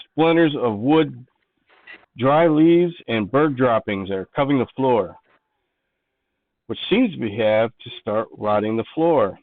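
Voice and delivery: measured game master narration; scene description. Acted. Game master describing the attic to players, measured scene-setting. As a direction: read the room out, phrase by phrase.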